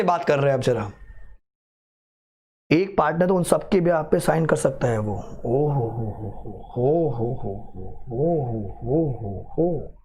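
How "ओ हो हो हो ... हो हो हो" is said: mocking ho ho laugh. Mocking student's wrong claim.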